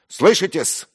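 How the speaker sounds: loud, high-pitched indignant tirade; heated, ringing self-defence; angry outburst. A narrator's reading. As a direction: hammer home the offended protest. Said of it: "прорвался я наконец".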